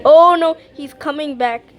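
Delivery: alarmed. Real, not acted. Spotting Cartoon Cat returning, alarmed cry. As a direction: yelp at the sight of him.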